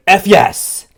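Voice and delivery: sudden high mock yell; shouted. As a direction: blurt it out like a kid cheering. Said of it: "And then she shouted".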